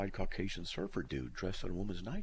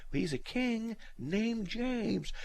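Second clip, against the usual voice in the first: deadpan answer; 14 semitones higher, much slower than usual. Retold or imitated. His deadpan answer to wife.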